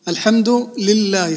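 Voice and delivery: الحمد لله with a held double L in لله; doubled lam. Shown as a demonstration. Teacher restating the first shadda, doubled L in لله. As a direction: lean on the L in لله. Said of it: "فهذه أول شدة معنا".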